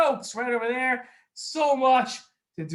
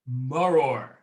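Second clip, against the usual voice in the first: low, drawn-out word; slow dictation; 7 semitones lower, 4 dB louder than usual. Shown as a demonstration. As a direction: say it slowly for someone writing it down. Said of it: "First time I'm gonna say it slow".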